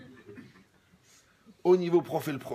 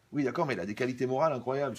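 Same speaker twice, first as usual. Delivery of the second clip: quick eager protest; faster than usual. Retold or imitated. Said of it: "c'est comme ça qu'il me parle".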